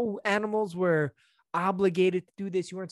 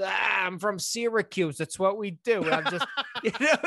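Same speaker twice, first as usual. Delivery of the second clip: mock bragging local, pitched up through laughter; lightly voiced upstate guy excusing himself; normal dude from Syracuse; 3 semitones higher than usual. Normal dude excusing his groping greeting, mock local pride breaking into laughs. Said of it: "a normal dude was".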